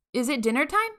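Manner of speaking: mock bellow from far up. A narrator's reading. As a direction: bellow it out cheerfully. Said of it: "he bellowed".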